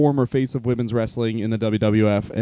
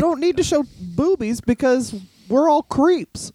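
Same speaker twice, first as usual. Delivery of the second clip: mock creepy fan voice; 11 semitones higher than usual. Mocking creepy fans.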